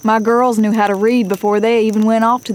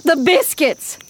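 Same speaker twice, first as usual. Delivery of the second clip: quick high startled cry; sudden alarm; 6 semitones higher, slower than usual. Acted. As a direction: remember the biscuits in a panic. Sudden alarm about food.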